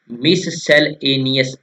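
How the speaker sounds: मिससेलेनियस slow, split as mis-sel-enious; broken into parts. Shown as a demonstration. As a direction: break मिससेलेनियस into pieces for memorising. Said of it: "ऐसे तोड़कर लिख लीजिए इसको". (मिससेलेनियस को धीरे-धीरे तोड़कर, मिस-सेल-एनियस)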